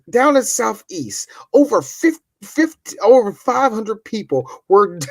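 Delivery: mock TV news anchor reporting a fire; news report parody. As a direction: read it like breaking news, hammed up. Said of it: "I hear this".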